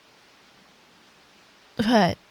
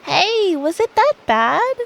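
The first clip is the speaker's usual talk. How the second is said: mock hurt; 8 semitones higher, 5 dB louder than usual. Pretends to be hurt.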